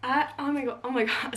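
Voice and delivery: tripping over words, breathless with joy; sputter, too thrilled to speak; stammering excitement. Real, not acted. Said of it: "I'm, like, speechless and I'm stuttering".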